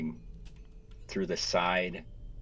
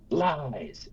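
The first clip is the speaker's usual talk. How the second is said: furious yell; 7 semitones higher than usual. Acted. Screaming while burning cathedral.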